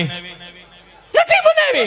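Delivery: high, slow, laughing housewife voice; teasing wife, stretched and giggling; mock housewife reply. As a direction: drag it out cheekily. Wife's defiant reply.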